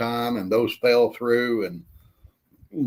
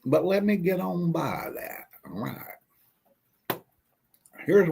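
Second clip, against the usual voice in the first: ice in mouth; 6 semitones higher, 3 dB quieter than usual. Real, not acted. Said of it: "Got ice in my mouth".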